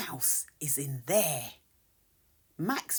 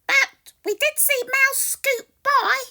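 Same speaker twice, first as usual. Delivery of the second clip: chirpy birds; 8 dB louder than usual. Acted. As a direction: cry it out like a flock of birds. Birds continue.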